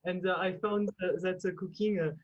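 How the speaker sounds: halting put-on French accent; French accent with filler pauses. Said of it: "In a French accent".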